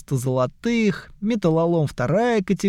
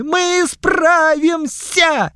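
very high, loud, slow plea; pleading goblins; 13 semitones higher, 4 dB louder, slower than usual. Acted. Goblin grandsons plead with grandfather, high and loud. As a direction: beg like scolded children. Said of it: "хором завопили гоблины".

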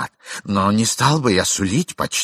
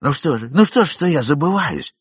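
furious; 7 semitones higher, 4 dB louder than usual. A narrator's reading. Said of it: "в бешенстве приступая".

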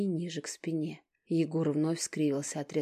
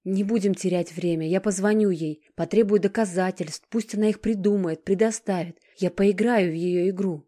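loud, resolute and higher; firm voice; 4 semitones higher, 9 dB louder than usual. A narrator's reading. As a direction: she has made up her mind. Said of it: "голос её был твёрд". (твёрдо и решительно, громко)

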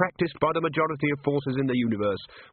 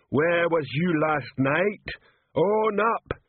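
slow, much higher bellowing troll; troll shouting; 6 semitones higher, much slower than usual. Acted. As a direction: shout it at the lined-up staff. Troll interrogating.

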